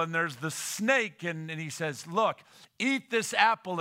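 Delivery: loud, emphatic storytelling preacher; impassioned preaching. Acted. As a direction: press the point on the congregation. Preaches at full force.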